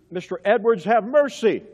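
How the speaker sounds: retold shriek. Preacher quotes sermon hearers who shrieked, mildly imitated shriek. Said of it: "Some of them shrieked".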